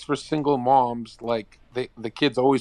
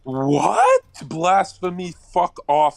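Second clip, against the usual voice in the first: mock outrage; 4 semitones higher, 4 dB louder, much slower than usual.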